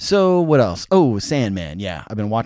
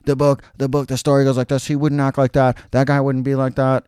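whiny fanboy complaint, higher; mock angry nerd; 4 semitones higher than usual. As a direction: play the outraged comic nerd. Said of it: "the nerds, like, get crazy mad".

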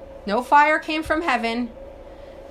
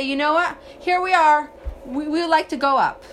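higher and louder, suddenly keen; eager turnaround; 4 semitones higher, 4 dB louder than usual. Retold or imitated. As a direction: sell the sudden change of heart as a mock eager crowd. People eagerly change their mind.

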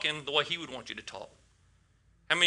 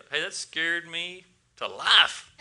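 playful correction; slower than usual. Shown as a demonstration. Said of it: "We should get to where we just say".

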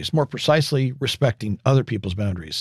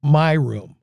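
slow and smug; 3 semitones higher, much slower than usual. Retold or imitated. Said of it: "Neil completes the statement by saying".

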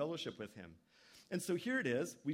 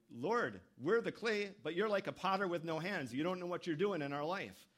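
mocking; 5 semitones higher, 4 dB louder than usual. People mocking God as a potter without hands, sneering. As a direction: taunt God like a sneering crowd. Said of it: "they were mocking God".

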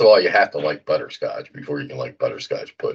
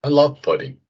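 excited; 10 semitones higher than usual. Real, not acted. Eager reply about pudding.

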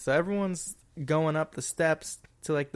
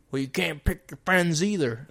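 put-on Boston accent; 3 semitones higher than usual. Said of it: "Bostonian accent".

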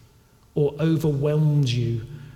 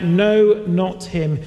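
higher and louder mock crowd yell; crowd shouting; 4 semitones higher, 4 dB louder than usual. The crowd shouting back at Pilate, a mild mock yell. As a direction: demand Barabbas like a mob. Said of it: "They shouted back".

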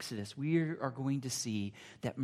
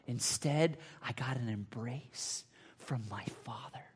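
reflective whisper. Acted. Reflective whispered sermon passage.

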